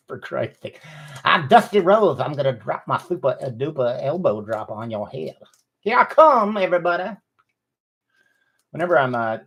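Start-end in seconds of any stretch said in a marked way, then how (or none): 1.2-7.2 high, loud hammed-up wrestler boast, like Divine; Dusty Rhodes impression. Sculptor doing the wrestler's promo in a high, loud mock voice. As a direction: brag about the elbow drop in a put-on high voice. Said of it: "He sounded like Divine".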